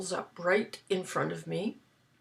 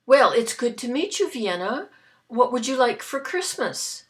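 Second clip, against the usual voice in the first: jolly Santa; 4 semitones higher, 8 dB louder than usual. Retold or imitated. Santa voiced in retold story.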